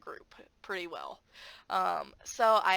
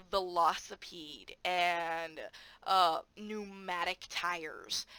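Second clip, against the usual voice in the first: slow careful words; 3 semitones lower, much slower than usual. Shown as a demonstration. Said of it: "explain the pronunciations".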